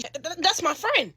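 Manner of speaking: nervous stammer on the opening; stuttering. Retold or imitated. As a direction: stumble over the first word.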